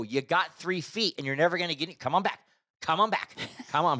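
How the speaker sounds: high-pitched exasperated urging; retold fed-up insistence; perturbed. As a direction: reenact losing patience while directing a driver. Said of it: "I'm getting all perturbed now".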